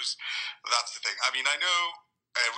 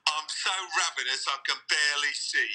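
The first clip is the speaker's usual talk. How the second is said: Michael Caine; 2 semitones higher than usual. Retold or imitated. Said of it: "a bloody Michael Caine now".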